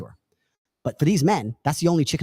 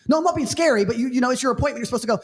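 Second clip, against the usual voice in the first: much higher, mock whiny man; frustrated man; 9 semitones higher, faster than usual. Imitating the man defending himself to the girl, high and whiny. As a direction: whine in protest.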